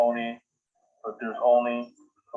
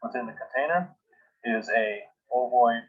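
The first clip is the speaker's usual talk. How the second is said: dictating. Shown as a demonstration. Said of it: "now I'm going to just start dictating".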